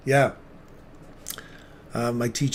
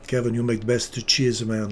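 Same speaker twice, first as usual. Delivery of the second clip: mock Italian accent, cheese said as "cheese-a"; lightly hammed-up Italian praising Kevin's cheese; a hint of Italian, "cheese" stretched to "cheese-a". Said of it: "you have to be Italian in that one".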